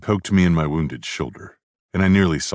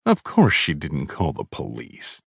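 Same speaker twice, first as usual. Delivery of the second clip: drawl; 2 semitones lower than usual. Acted. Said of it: "the psycho drawled".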